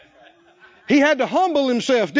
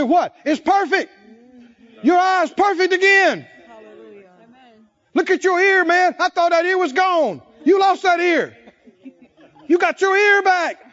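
much higher and louder, overjoyed yelling; ecstatic shout; 6 semitones higher, 4 dB louder than usual. Acted. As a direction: shout with astonished joy at the healed ear. Leper amazed at restored ear.

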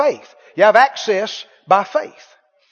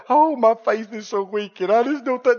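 whiny complainer; 5 dB quieter than usual. Retold or imitated. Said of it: "big old spiel".

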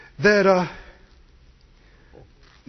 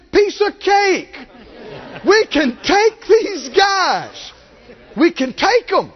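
bold shout; 8 semitones higher, slower than usual. Real, not acted. Preacher rallying the crowd with confident shouts. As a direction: roar it like you can win.

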